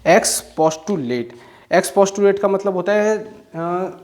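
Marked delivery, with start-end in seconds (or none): 0.1-1.2 each syllable stretched out; slow deliberate dictation. Shown as a demonstration. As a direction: draw out expostulate syllable by syllable. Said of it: "Next word is".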